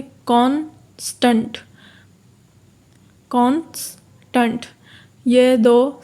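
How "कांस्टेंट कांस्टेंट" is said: slow, syllable-by-syllable; syllables split slowly. Shown as a demonstration. Teacher splitting कांस्टेंट into syllables for students. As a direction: break the word into its beats, slowly. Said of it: "अब इसमें कितने syllable बनेंगे?".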